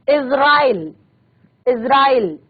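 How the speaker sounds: इजराइल with ज as z, Izrail; nukta z sound. Shown as a demonstration. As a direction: say इजराइल with a buzzing z, carefully. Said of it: "इजराइल नहीं पढ़ेंगे इसको".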